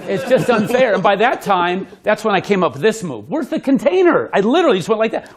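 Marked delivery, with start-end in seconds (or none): 0.1-0.9 laughing. Real, not acted. Repeated punchline, second take. 3.3-4.3 mock puzzled. Acting out his move.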